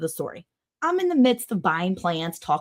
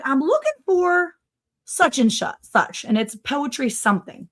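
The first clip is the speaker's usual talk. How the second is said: lightly voiced old man, higher and halting; old man impression; 5 semitones higher than usual. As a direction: imitate an elderly customer searching for the name. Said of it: "he's, like, in his nineties".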